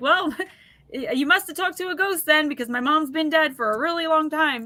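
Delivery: acted talking through laughter. Retelling a mother's reply to a stranger: imitating someone laughing while talking. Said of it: "And my mom was laughing".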